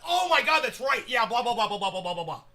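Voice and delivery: mock excited realisation. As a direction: play up remembering all at once. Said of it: "And I'm like".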